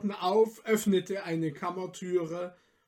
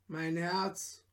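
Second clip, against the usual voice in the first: softer, barely spoken "Mein Herz"; hushed reply; 10 dB quieter than usual. Acted. Peter answers softly, afraid.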